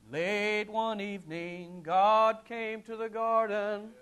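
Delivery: half-speak the song line gently; slow recited lyric. Retold or imitated. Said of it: "And it goes".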